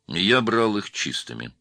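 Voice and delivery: each word set down firmly; steady insistence, slow and sure. A narrator's reading. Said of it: "твёрдо сказал Наум".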